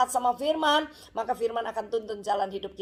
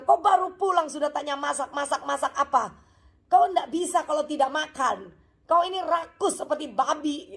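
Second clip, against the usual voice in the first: higher-pitched scolding of a husband; hammed-up cross wife, lightly done; mock angry wife; 4 semitones higher than usual. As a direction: nag him as he walks in, pitched up. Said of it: "si ibu marah-marah sama si bapak".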